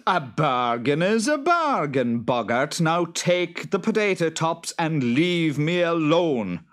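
high, loud hammed-up Boggart. Boggart snapping at the farmer, high and loud. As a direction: squeal it out like a cross little monster.

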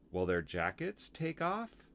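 put-on high, questioning child voice; Lucy. Girl asking about lambs' coats, high question. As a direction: ask high as a curious little girl. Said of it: "asked Lucy".

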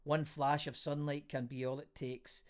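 measured, deliberate reading of lyrical prose; literary reading. A narrator's reading. Host reads a friend's words on reassurance, literary reading. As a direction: read it out phrase by phrase, with pauses. Reads a written reflection aloud.

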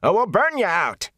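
high, loud threat; shouted threat. A narrator's reading. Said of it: "he shouted".

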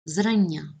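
Зрання stressed on the first syllable, ЗРАН; ZRAN-nia, clear model of Зрання. Shown as a demonstration. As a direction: lean on the opening syllable of Зрання. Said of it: "наголос на першому складі".

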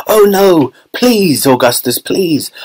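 high-pitched pleading cry; Mister Wonka. A narrator's reading. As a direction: cry out, begging him to stop. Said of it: "he cried out".

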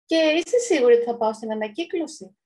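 hopeful, held-back delight; restrained joy. Acted. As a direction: ask with a touch of excitement. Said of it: "ρώτησε με συγκρατημένη χαρά". (συγκρατημένη χαρά)

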